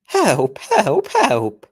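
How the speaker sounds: three separate loud falling helps; Mark Morahan. Acted. Imitating the next narrator's scream, loud falling cries. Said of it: "Mark Morahan".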